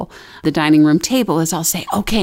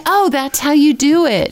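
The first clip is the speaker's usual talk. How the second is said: a lightly voiced kid, higher and discovering; child voice; 7 semitones higher than usual. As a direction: imitate a four-year-old getting it. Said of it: "They're like".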